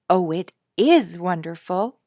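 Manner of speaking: put-on a child crying out in delight; thrilled child's cry; excited cry. A narrator's reading. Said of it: "cried Sonia".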